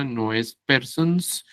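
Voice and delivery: slow, stretched persons as a wrong form. Shown as a demonstration. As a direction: draw out persons to show it is wrong. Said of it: "sino people".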